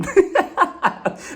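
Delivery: high burst of laughter; real amused laugh. Real, not acted. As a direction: crack up briefly, high. Laughs at own complaint.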